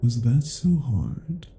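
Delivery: loud, satisfied "Good"; rewarding an obedient dog; pleased praise. Acted. Captive finally obeys.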